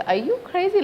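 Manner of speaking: high-pitched mock disbelief; incredulous retort. Acting her incredulous reply to mother.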